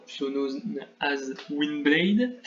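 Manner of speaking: slow, put-on English accent; playful slow English accent on the game name. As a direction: show off a mock English accent. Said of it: "appréciez mon accent anglais".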